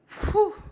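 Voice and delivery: high, loud "whew" to steady oneself; overcome, blow out a heavy breath; real, emotional "whew"; emotional exhale. Real, not acted. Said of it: "I'm getting emotional".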